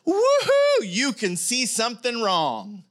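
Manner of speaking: sarcastic cheer at spotting faults. Acted. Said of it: "that sounded a little sarcastic".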